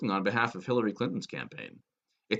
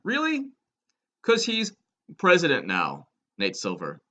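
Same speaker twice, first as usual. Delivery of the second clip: a much higher, incredulous Really; sarcastic disbelief; 6 semitones higher than usual. Real, not acted. Sneering at the pollster, high sarcastic disbelief. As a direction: scoff it like you can't believe it. Scoffing at Nate Silver's prediction.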